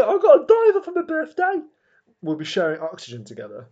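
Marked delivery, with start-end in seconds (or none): 0.1-1.6 loud, high and excited; talking loud. Pretend. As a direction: announce it far too loud. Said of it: "why are you talking so loud?".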